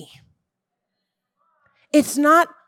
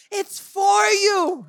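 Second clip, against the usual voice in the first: higher, slow, emphatic shout; preacher's shout; 5 semitones higher, slower than usual. Real, not acted. Preacher insisting to the church, slow shout. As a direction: cry it out to the church, drawn out. Preacher driving home the point.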